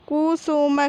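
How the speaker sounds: कुसुम broken into कु, सु, म; teacher spelling out कुसुम in pieces; syllable by syllable. Shown as a demonstration. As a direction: sound out कुसुम with a full final म. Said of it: "तो हम इस प्रकार पढ़ेंगे".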